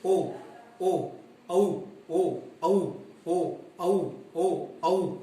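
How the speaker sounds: ओ and औ alternated, lips rounded; ओ and औ vowels. Shown as a demonstration. Teacher demonstrating throat-and-lip vowels to students, clearly articulated. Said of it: "ये कौन सी हैं".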